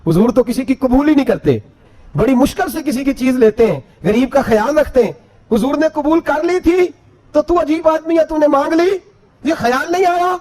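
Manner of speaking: mild scolding that climbs in pitch; imitated reproach, pitch building steadily; retold angry reproach. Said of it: "ایک صحابی غصے سے بولے".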